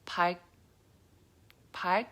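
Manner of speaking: park with the L started then cut by a G stop; park, tongue reaches for L but gets shut. Shown as a demonstration. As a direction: repeat park, the L swallowed into a back-tongue G. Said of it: "your tongue wants to do the L sound".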